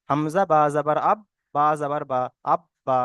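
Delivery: measured spelling drill for learners; letter-by-letter teaching recitation. Shown as a demonstration. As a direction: recite the spelling part by part, pausing between groups. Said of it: "এটা আমি বানান করে বললাম".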